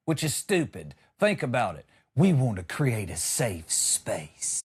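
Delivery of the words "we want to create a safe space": slow, lower mock corporate HR speech; dragged-out corporate HR impression. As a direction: parody a scripted HR trainer, slowly. Mocking corporate HR talk.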